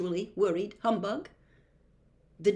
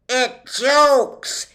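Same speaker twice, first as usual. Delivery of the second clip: loud, high exclamation; joyful shout; 6 semitones higher, 11 dB louder than usual. A narrator's reading. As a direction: shout it out, jumping for joy. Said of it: "he shouted again".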